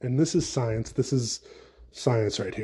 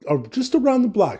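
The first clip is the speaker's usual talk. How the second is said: mock-furious rant at cold lovers; heated rant; 4 semitones higher than usual. Real, not acted. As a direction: tell them off, fed up.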